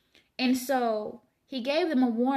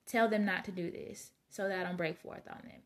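softer, gentle and unthreatening; mildly voiced tender God; calm, meek God voice; 3 semitones lower, 5 dB quieter than usual. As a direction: say it like a patient father calming a child. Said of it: "It's calm. It's meek".

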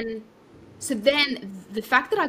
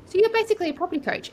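quoting CEO; 10 semitones higher, 4 dB louder, faster than usual. Retold or imitated.

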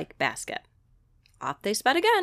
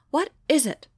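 impatient; 4 semitones higher, 4 dB louder than usual. Acted. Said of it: "Sasha asked impatiently".

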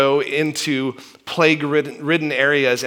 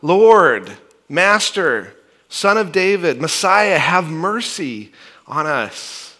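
a louder start, slowing plea at the end; crying out louder; 2 semitones higher, 3 dB louder, slower than usual. Retold or imitated. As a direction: call out even harder over the crowd. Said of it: "they cried out all the more".

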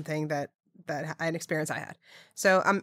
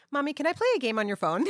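put-on much higher, a child's casual whiny ask; imitating her daughter; 9 semitones higher, faster than usual. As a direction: flip to a bored little kid. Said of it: "she turns to me and she goes".

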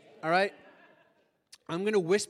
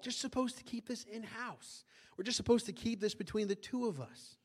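softer, higher voice of someone covering up; mock confidential, keeping it quiet; hushed secrecy; 3 semitones higher, 7 dB quieter than usual. Voicing church members urging secrecy.

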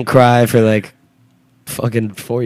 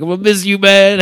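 higher, louder imitation of drunken crying; mock tearful; 8 semitones higher, 3 dB louder than usual. Retelling a tearful goodbye between drunk friends, mock tearful. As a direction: wail it like a wasted friend, half in jest. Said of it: "we just started simultaneously crying".

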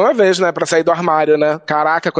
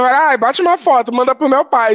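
higher-pitched, playful mock request; joking irony; 7 semitones higher than usual. Drag queen to aunt, teasing and ironic. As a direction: toss it off as an ironic joke. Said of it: "zoando. Eu falando zoando".

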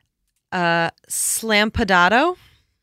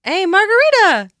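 louder, higher playful call; 12 semitones higher, 9 dB louder than usual. Pretend. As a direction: call the name out across a bar. Calling out the word.

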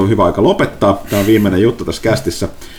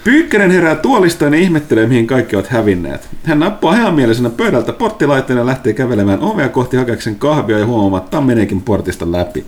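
game master narration. Acted.

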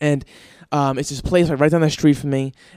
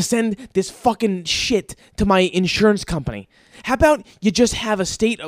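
angry rant; 4 semitones higher than usual. Real, not acted. Host ranting to listeners about the notary fee, heated. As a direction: get worked up and rant it out.

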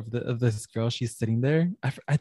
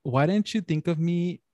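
put-on jealous girlfriend. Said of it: "And she goes".

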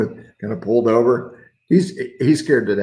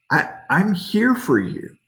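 gentle reassurance; 6 semitones higher than usual. Acted. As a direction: say 'I'm here for you' as a loving promise. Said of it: "gentle whisper".

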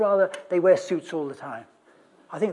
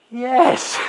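stunned yes; 7 semitones higher, 9 dB louder than usual. Acted. Chap's stunned reply to woman.

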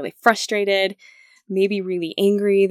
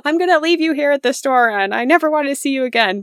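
higher, louder mock threat; hammed-up angry parent; imitating a parent threatening a child; 6 semitones higher, 5 dB louder than usual. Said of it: "We'll yell, we'll threaten".

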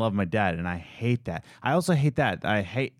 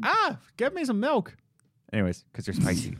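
oily smooth seducer; 13 semitones higher than usual. Pretend. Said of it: "You're a weird man".

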